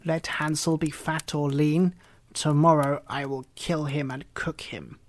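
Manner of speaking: a lightly voiced impatient witch. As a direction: push her to hurry, with a threat. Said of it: "she said to the girl".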